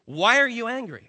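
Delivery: loud searching question as the Lord; God questioning Cain. Acted. Preacher as the Lord asks Cain, loud and searching. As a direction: call it out like God confronting Cain. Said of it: "Then the Lord said to Cain".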